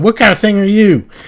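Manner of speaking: very high-pitched, loud put-on character yell. Voicing a character who yells at a strange creature: yelling in character. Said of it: "he's yelling".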